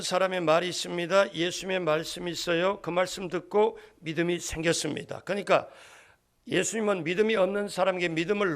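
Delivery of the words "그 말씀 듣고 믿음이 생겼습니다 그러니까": normal talking voice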